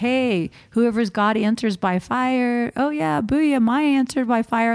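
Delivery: a swaggering prophet's hyped-up dare; cocky taunt. Retold or imitated. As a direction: gloat like you've already won the contest. Elijah taunting prophets of Baal.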